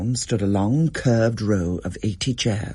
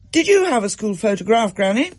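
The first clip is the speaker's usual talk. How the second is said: high, lightly voiced little girl; a young granddaughter asking eagerly; a hint of a curious child; child's voice; 11 semitones higher, 4 dB louder than usual. A narrator's reading. Rose asks granny.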